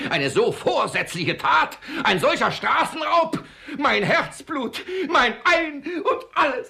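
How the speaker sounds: loud, high, drawn-out outrage; outraged shouting. Acted. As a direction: wail over the stolen treasure. Miser raging over stolen money.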